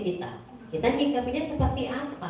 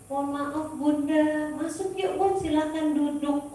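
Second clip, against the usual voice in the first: sweet, higher voice hiding anger; overly gracious invitation, pitched up; honey-sweet courtesy over boiling anger; forced politeness; 5 semitones higher than usual. Retold or imitated. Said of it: "Padahal di sini rasanya luar biasa".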